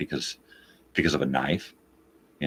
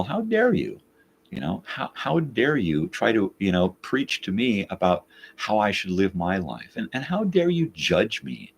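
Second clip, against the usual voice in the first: retold indignation; 5 semitones higher than usual. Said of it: "And I was like".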